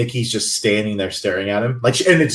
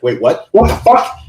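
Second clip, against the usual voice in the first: imitated sudden realization; 5 dB louder than usual. Retelling Nikki opening her eyes mid-kiss, shocked realization. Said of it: "comes to realization".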